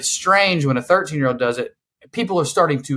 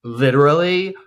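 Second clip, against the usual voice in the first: put-on Valley girl. Showing co-hosts how young people talk, Valley girl. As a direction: stretch it out like a mock Valley girl. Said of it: "they do a Valley".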